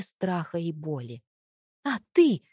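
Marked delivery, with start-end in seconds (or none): 1.8-2.4 a loud, high outburst; shouted. A narrator's reading. Wife lashes back at her husband, shouted. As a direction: spit it out in his face. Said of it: "выкрикнула я".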